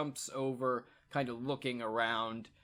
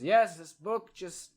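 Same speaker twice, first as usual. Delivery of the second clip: woman's reply; 4 semitones higher, 5 dB louder than usual. Acted. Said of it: "And she says".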